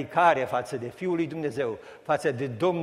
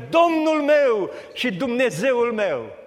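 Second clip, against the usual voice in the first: joyful exclamation; 8 semitones higher, 6 dB louder, slower than usual. Acted. Thomas's confession, voiced.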